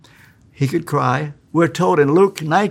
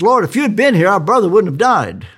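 reproachful; 4 semitones higher, 4 dB louder, faster than usual. Retold or imitated. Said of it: "blames Jesus".

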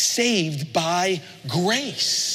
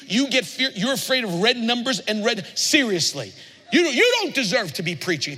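mock scolding; 5 semitones higher than usual. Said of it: "God wasn't going".

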